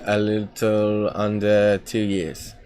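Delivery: slow, put-on English accent; drawn-out English-accented reply. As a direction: answer in a mock English accent. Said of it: "why are you doing it in English".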